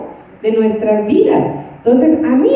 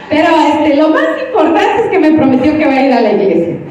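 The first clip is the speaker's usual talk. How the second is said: riendo; 2 semitones higher, faster than usual. Retold or imitated. Cita de la hermana riendo.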